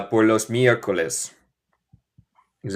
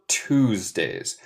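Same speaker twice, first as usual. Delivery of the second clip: Tuesdays in her American accent, starting "tooz"; own American accent; 4 semitones lower, 5 dB quieter than usual. Shown as a demonstration. Teacher contrasts her accent with England's, American accent. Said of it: "Esto es mi acento".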